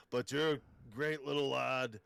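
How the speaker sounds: a touch of Scottish lilt on lad; Scottish-tinged lad. Acted. Arnold calling the host a little lad in Scottish. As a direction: Austrian voice slipping into Scottish. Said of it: "The lad thing".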